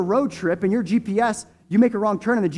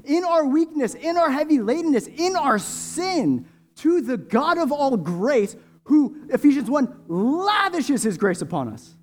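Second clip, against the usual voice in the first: prayer. Real, not acted. Long prayer before communion.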